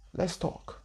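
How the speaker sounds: breathy unvoiced whisper of the Great Mother; whispered spirit voice. The Great Mother waking her at night, whispered. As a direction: hush it like a voice in the dark.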